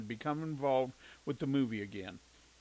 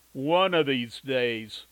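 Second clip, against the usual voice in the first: slow, louder, menacing through clenched teeth; through gritted teeth; 9 dB louder, much slower than usual. A narrator's reading. The Duke warning the man at the mud pit through gritted teeth. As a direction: grind it out, holding back a punch. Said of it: "through gritted teeth".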